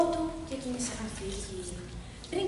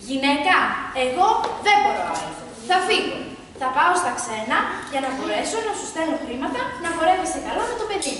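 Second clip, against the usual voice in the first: raised voice to wife; 5 dB louder than usual. Acted. Husband tells his wife loudly that he is leaving. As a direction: announce it loudly, mind made up.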